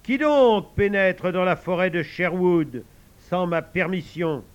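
slow, loud, lofty challenge; boy playing Robin Hood; hammed-up Robin Hood. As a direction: declaim like a storybook hero. Tom plays Robin Hood.

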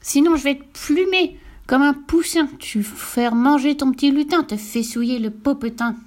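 furious witch threatening; roaring witch. Acted. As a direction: rage at the child. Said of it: "rugit Cornebidouille".

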